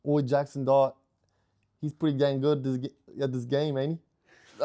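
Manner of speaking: shaky stab at a British accent; attempted British accent. Shown as a demonstration. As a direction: put on an unconvincing British accent. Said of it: "like, a British accent".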